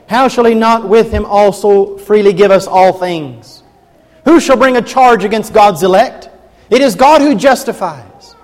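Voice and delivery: rising, fervent reading of Paul's words; scripture reading. Acted. Preacher to congregation, fervent scripture reading. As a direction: preach the passage with growing force. Preacher reads Romans aloud.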